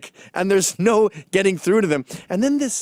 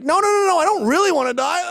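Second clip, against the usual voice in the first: high, loud panicked begging; mock terrified pleading; 10 semitones higher, 3 dB louder than usual. Goth pleading at the kill, mock panicked squeal. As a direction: beg for your life in a squeal. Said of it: "He's like".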